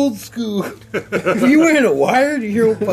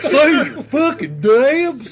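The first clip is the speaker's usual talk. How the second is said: new voice; 6 semitones higher, slower than usual. Acted. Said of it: "I'm trying out new voices tonight".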